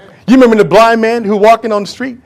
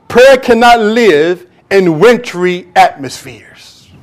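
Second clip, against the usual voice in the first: slow sermon reading; slower than usual. Real, not acted. Reading E M Bounds slowly.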